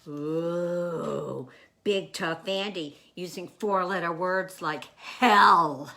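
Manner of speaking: mocking tease. The speaker teases Andy's swearing.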